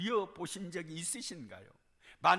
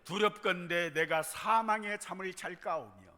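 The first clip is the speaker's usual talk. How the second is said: scripture read aloud together; 4 semitones lower than usual. Shown as a demonstration. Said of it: "시작".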